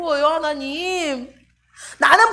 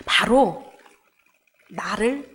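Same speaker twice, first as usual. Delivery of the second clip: unvoiced hush, much softer, leaning in; whisper; 7 semitones lower, 4 dB quieter than usual. Real, not acted. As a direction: whisper it like a secret to the congregation. Hushed aside mid-sermon. (속삭이듯 조용히)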